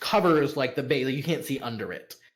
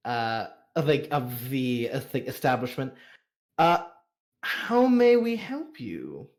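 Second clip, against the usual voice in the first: madam's welcome. Acted. Madam welcoming guests to the Jade Spring, lightly gracious. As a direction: play the host making her welcome. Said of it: "and maybe is now like".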